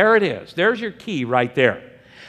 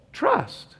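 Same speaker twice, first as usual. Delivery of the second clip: emphatic answer; 12 semitones higher, 3 dB quieter than usual. Real, not acted. Preacher answers his own question.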